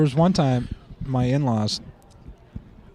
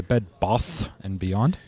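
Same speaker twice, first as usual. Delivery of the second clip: British-sounding broad "Bath"; accidental British accent; 4 semitones lower, slower than usual. Retold or imitated. Telling drummer on phone, accidental British accent. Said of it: "That's the best accent you ever had".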